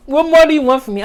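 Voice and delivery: quick, laughing take on a singer's pleading line; a lightly voiced impression of the singer, tossed off fast; singer impression. Joking to viewers, a quick plea in the singer's voice. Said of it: "in my singer's voice".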